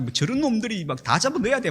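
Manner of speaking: 화난 말투 흉내. Retold or imitated. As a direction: retell an angry rant without shouting. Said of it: "화가 나가지고". (화난 척 높여 투덜대는 말투)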